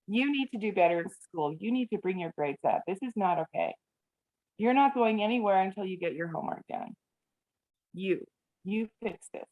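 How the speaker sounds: lightly imitated lecturing mother; mom voice. Parent scolding a teenager over grades and homework, lightly voiced mom voice. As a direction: lay down the law with a touch of mom. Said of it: "Do you hear the mom voice?".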